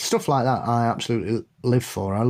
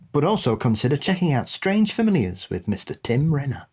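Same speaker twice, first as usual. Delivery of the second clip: message read-out; 3 semitones higher than usual. Acted. Reads a listener's message.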